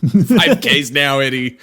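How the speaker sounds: loud, slow mock command; nagging. Symbiote pushing Eddie to run, loud nagging. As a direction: order it firmly, drawn out. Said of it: "It just nags you all day".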